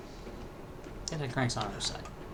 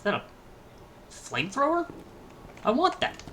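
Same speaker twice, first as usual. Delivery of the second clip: excited; 12 semitones higher, 4 dB quieter, faster than usual. Real, not acted. Excited find.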